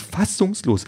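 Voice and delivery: very high, plaintive cry; wailing drone. A narrator's reading. Drone repeats its dismay while leaving, wailing. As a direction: let it soar up in a whine. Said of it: "jammert sich".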